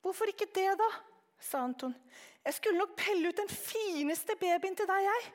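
put-on high, eager small boy's voice; a curious child piping up; little boy. Anton's child voice, narrated story.

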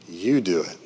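"You" hit firmly, rest of the line light; stress on YOU. Retold or imitated. Preacher voicing Jesus to his disciples, stress on "You". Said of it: "the emphasis falls on the word".

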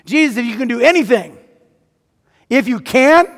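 high, loud mocking echo; incredulous mock quote; mocking the doubter. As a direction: throw his words back with scorn. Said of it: "Is that how you pray?".

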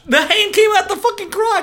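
loud, high-pitched confirmation; exasperated amazement. Real, not acted. Confirming the crotch hand to listener, exasperated amazement. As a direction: shout it back, still aghast.

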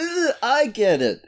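slow, high, dragged-out reluctant admission; grudging. Real, not acted. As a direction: concede it with a weary sigh. Grudging reply to the pun.

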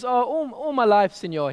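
put-on old fisherman's Mexican accent, rolled senor; lightly Mexican-accented fisherman, easygoing. Fisherman answering the tourist in a Mexican accent. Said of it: "this is a Mexican accent, by the way".

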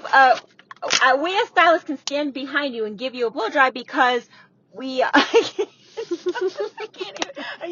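fighting a laugh mid-sentence; trying not to laugh. Real, not acted. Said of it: "you're not allowed to laugh and you wanna laugh".

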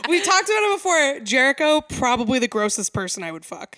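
real giggly admission, settling as it goes; amused confession. Real, not acted. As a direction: confess it through real laughter. Joking confession amid shared laughter.

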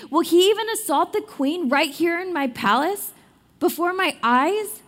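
an affronted king calling out; exclaiming king. A narrator's reading. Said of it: "The king exclaimed".

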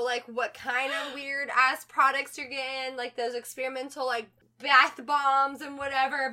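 loud, rambling defensive excuses; mock blame-shifting. Boyfriend blaming her weird products, mock defensive rambling. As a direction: grope for anything else to blame. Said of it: "trying to find, play the blame game".

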